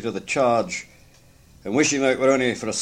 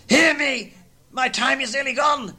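commanding ghost; 12 semitones higher than usual. Acted. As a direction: demand to be heard.

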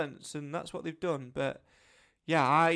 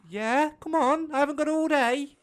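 impatient; 10 semitones higher, 8 dB louder than usual. Acted. Impatient mock urging.

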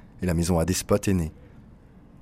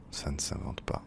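chuchoté et plus doux, complice; aparté chuchoté; 6 semitones lower, 11 dB quieter than usual. Acted. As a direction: glisser la remarque en confidence. (murmure amusé)

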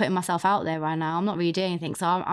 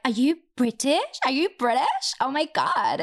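higher-pitched mock gushing American women; 3 semitones higher, slower than usual. American women at the bar spot a British man, gushing. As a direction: squeal lightly like impressed American girls at a bar. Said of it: "he goes to America and he sees all these women".

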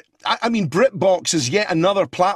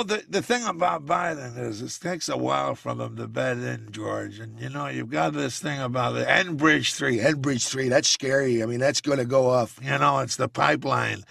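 Joe Biden impression; 4 semitones lower than usual. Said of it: "is Joe Biden just too boring to do".

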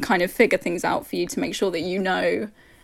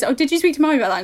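posh imitation; 5 semitones higher, 3 dB louder, much faster than usual. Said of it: "And then she says".

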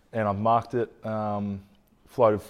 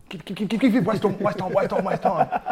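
higher, louder mock yell, half laughing; retold yelling teammate; 10 semitones higher, 6 dB louder than usual. Teammate on the far wing calling for the ball, higher, louder laughing mock yell. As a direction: bellow it across the ground like a teammate wanting the ball, cracking up at the end. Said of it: "Tommy Sheridan sixty metres out on the far wing going".

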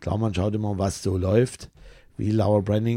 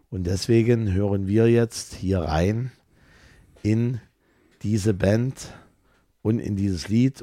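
put-on booming kids show opener. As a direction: address the audience like a show host. Ansage an Zuschauer und Hörer. (feierliche Moderatorenansage)

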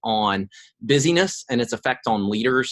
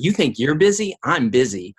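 one-upping challenge; 2 semitones higher, 4 dB louder than usual. Retold or imitated. Imagined retort to busy people, competitive challenge.

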